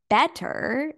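"better" set off by a pause as if in air quotes. Real, not acted. Telling overworked listeners what only seems better, "better" said as if quoted. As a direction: hold back, then place "better" in audible quotation marks. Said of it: "in quotations".

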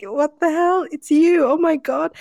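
comic high-pitched shock; imitated shock. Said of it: "the look of shock".

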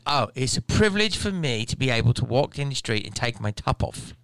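imitated British-Antipodean woman; mock her odd British or New Zealand accent; weird British-New Zealand accent. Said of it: "It was a weird accent".

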